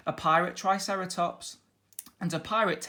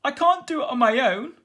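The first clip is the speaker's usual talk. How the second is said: high, loud pirate bluster; captain blustering that he can't do it; 10 semitones higher, 11 dB louder than usual. A narrator's reading. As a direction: huff it out in frustration. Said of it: "blustered Captain Stubble".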